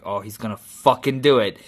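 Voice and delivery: imitating a viewer's first suspicion, held back; restrained anticipation. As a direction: realize it's coming, at an everyday volume. Acts viewer's first suspense.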